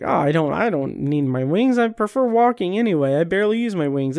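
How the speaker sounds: lightly acted modest brush-off, quickening as it goes; aw-shucks modesty. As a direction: wave off the fuss like a humble angel, mildly hammed-up. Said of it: "an oh shucks kind of thing".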